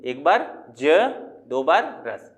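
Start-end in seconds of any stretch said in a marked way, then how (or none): 0.8-0.8 ज said alone as a middle syllable; counting syllable breaks. Shown as a demonstration. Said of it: "कितनी बार हम रुक रहे हैं". 2.1-2.3 रस said alone as the last piece; counting syllable breaks. Shown as a demonstration. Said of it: "कितनी बार हम रुक रहे हैं".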